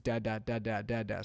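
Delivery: lightly voiced baby babble; baby babbling dada. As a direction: repeat it like a baby on a loop. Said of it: "she was just".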